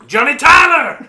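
high, loud call across the street. Retold or imitated. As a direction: call his name from the porch. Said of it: "you hear from the balcony".

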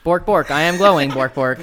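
loud, high cartoon dog voice; goofy dog voice. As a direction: bark it out like a happy dog. DM voices glowing dog Wolfish.

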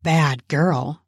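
low teasing coo. Acted. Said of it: "I cooed".

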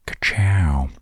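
light cartoon race-car cheer; Lightning McQueen catchphrase. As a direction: toss off a quick Lightning McQueen "ka-chow". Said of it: "Lightning McQueen came into my head".

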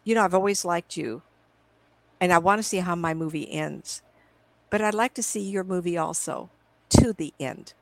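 retold calm, measured plea. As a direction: say it calmly, with unhurried pauses between thoughts. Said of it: "I said very calmly".

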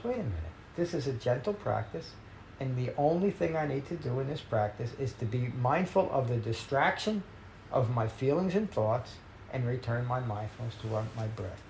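softly reassuring inner voice; gentle reminder. Retold or imitated. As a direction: coax yourself back to the breath. Gentle self-reminder in meditation.

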